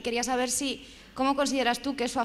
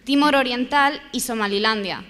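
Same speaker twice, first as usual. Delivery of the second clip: louder, emphatic "Timor Oriental y Somalilandia"; clear repetition; 5 dB louder than usual. Real, not acted. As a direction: repeat the names clearly for someone who missed them. Repeats after listener asks "sobre qué. (repetición más fuerte y clara)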